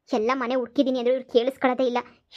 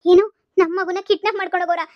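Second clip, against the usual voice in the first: shocked; 4 semitones higher, 5 dB louder than usual. Acted. Mother hears of the kidnapping.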